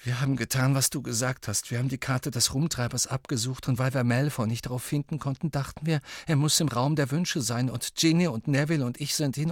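lightly voiced boy, explaining himself; Ron.

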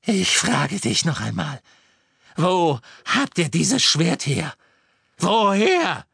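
menacing interrogation building to a shriek; furious villainess screech; Bellatrix. A narrator's reading. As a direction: demand slowly, then explode high and loud. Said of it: "hörten sie Bellatrix' Stimme".

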